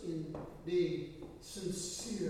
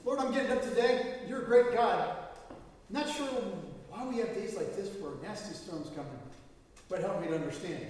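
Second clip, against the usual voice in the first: sincere prayer. Pretend. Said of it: "Jesus would much rather hear us say".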